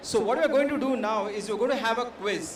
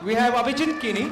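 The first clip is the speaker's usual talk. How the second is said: calling out a name; 3 dB louder than usual. Real, not acted. Introducing a panelist to the crowd.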